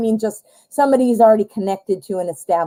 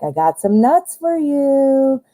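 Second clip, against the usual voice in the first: coaxing; 5 semitones higher, slower than usual. Retold or imitated. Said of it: "And you're like".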